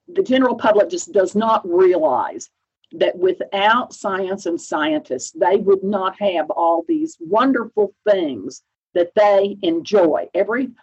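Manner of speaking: earnest, emphatic case for science; enthusiastic insistence. Retold or imitated. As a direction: press the point with mild enthusiasm. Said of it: "very enthusiastically".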